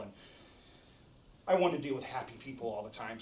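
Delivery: ordinary delivery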